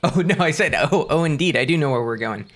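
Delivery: glitchy robotic voice from a bad connection. Real, not acted. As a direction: sound like a choppy robot. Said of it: "You are a robot".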